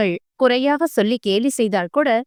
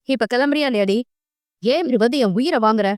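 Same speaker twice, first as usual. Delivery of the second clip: scolding; faster than usual. Acted. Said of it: "குரலை உயர்த்தி அதட்டினான்".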